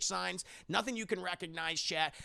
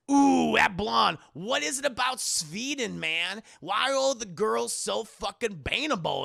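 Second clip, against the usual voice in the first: higher, louder, slow lecherous drawl; leering horny guy; 4 semitones higher, 5 dB louder, slower than usual. Retold or imitated. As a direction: ogle every woman out loud. Mark ogling Swedish women.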